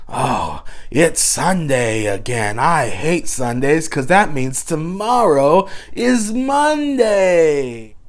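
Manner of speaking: lightly voiced whiny gremlin, slow; a hint of a grumbling gremlin moaning about Sunday. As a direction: drag it out like a sulky little gremlin. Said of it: "That's my gremlin voice".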